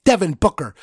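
loud, furious yell of the name; angry shout. Real, not acted. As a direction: shout the name in real rage. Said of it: "I'm mad".

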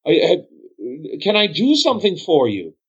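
high, eager, nervous innkeeper; flustered bartender. Acted. Bartender fawning over Lord Aniston, high and flustered. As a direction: scramble to please a noble.

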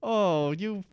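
cartoon British rant, pitched well up; mock British rant. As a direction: splutter British insults like a stage Cockney. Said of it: "angry British slang".

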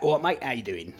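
a light imitation of a common British "All right, mate" greeting; common British accent. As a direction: toss off a casual common British greeting, only lightly put on. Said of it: "you get some people that talk like that".

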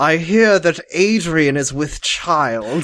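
slow, mock-solemn period drama; drawn-out Puritan pronouncement; Crucible-style speech. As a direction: pronounce it slowly like an old Puritan play. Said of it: "talking like they're in the fucking Crucible".

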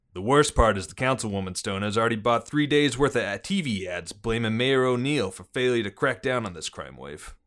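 put-on police chief briefing in a Boston accent; gruff-cop Bostonian, dropped R's. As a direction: lay out the case in Boston cop talk. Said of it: "is that a Bostonian accent there?".

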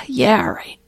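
sighing, grudging yes; mock reluctant agreement. Beast agreeing to help when it feels like it, mock reluctant. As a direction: give in with a sigh as the reluctant beast. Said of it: "feel like it".

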